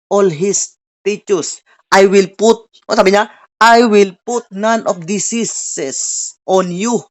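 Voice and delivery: drawn-out, weighty reading of the verse; slow scripture reading. Acted. Pastor reads God's promise to the church, slow and weighty. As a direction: stretch every word of the promise.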